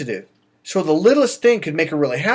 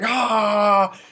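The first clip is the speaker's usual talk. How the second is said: drawn-out "aah" of someone losing it; mock freaked-out cry; angry outburst; 4 semitones higher than usual. Coach imitating a guy who loses his balance, mock angry cry. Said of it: "freaked out and pissed off and angry".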